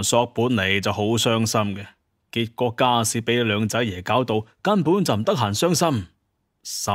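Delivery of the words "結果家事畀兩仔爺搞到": ordinary delivery, nothing marked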